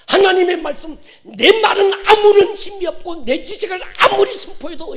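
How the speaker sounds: loud, high-pitched sermon delivery; impassioned preacher in full cry; preaching at full force. Real, not acted. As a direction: drive each phrase home to the congregation.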